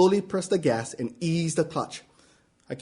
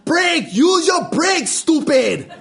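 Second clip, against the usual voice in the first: much higher, loud panicked yell; shouted order; 10 semitones higher, 4 dB louder, much slower than usual. Retold or imitated. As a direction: blast it out in panic. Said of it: "the words come in a blast".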